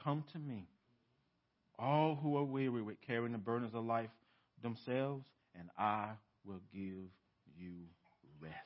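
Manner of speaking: quiet, tender reading of Jesus' words; tender invitation. Shown as a demonstration. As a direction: offer it gently, almost a whisper at the end. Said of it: "If so, Jesus says".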